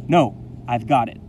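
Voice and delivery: mild insistent cry, firm first word. A narrator's reading. Boy insisting to the teacher, crying out mildly. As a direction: insist it out clearly. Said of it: "I cry out".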